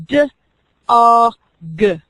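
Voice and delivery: "D, A, G" said as separate sounds; segmenting sounds. Shown as a demonstration. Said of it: "they would catch the word dog".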